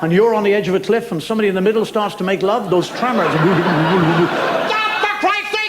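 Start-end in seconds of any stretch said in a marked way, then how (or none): 3.3-5.7 much higher, exasperated squawk; annoyed man. Acted. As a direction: yelp it like a man teetering on a cliff. Annoyed man on cliff edge.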